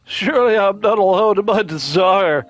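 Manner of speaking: laid-back surfer dude. Acted. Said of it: "I'm just gonna give him the surfer dude voice".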